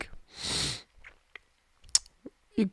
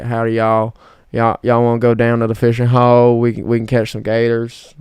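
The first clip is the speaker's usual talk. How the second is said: southern accent; 6 dB louder than usual. Shown as a demonstration. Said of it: "I could slip into it".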